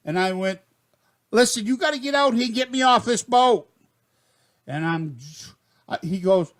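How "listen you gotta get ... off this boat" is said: higher-pitched, agitated demand for rescue; urgent plea. Retold or imitated. Stranded boatman radioing Jack for rescue, urgent plea. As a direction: plead urgently, mildly panicked.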